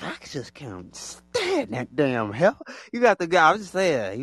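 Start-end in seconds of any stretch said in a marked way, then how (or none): 0.0-2.6 mock hater voice. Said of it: "And they just like".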